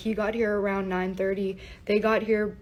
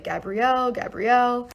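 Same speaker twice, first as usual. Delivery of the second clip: calling out; 4 semitones higher, 5 dB louder than usual. Retold or imitated. Police calling up the stairs.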